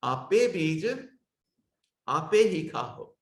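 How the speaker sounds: ਆਪੇ said with a full long e sound at the end; full lam pronunciation. Shown as a demonstration. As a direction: say ਆਪੇ ਬੀਜ ਆਪੇ ਹੀ ਖਾਓ with a clear open ਆਪੇ. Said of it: "ਪਰ ਇਸ ਦਾ ਉਚਾਰਨ ਪੂਰਨ ਲਾਮ ਵਾਲਾ".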